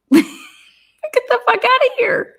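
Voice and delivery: high, slow, laughing get the fuck outta here; laughing disbelief. Real, not acted. Vlogger reacting to the roommate's phone alibi, laughing loud.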